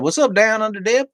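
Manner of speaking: high, loud whooping greeting; excited shout-out. Real, not acted. Host greeting a viewer by screen name, high excited holler.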